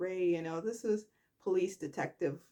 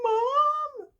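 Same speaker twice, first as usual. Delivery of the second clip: much higher, louder crying mom; tearful cry of mom; 7 dB louder than usual. Retold or imitated. Summer crying out to Phyllis, high hammed-up tearful call. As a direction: cry out to a mother thought lost.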